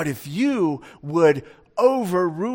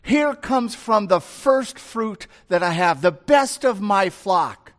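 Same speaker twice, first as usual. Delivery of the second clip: eager Abel; 3 semitones higher than usual. Acted. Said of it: "Abel comes and he says".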